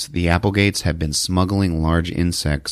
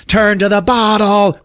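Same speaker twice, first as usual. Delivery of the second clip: mock sneer; 14 semitones higher, 7 dB louder than usual. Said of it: "and he's like".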